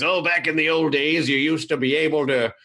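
lightly voiced old man reminiscing; hint of an old-timer, pitch jumping at times. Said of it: "it was the old man voice".

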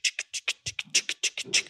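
whispered tsk-tsk of a cocktail shaker; shaker sound. Shown as a demonstration. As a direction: make the shaker noise with your mouth. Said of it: "Naja, das ist, wenn das so". (Shaker-Geräusch)

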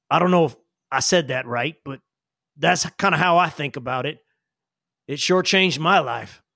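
folksy character voice, halting and earnest; Sam. Acted. Sam advises Jillian on powers, folksy and earnest. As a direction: reason it out in plain country talk. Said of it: "and he says".

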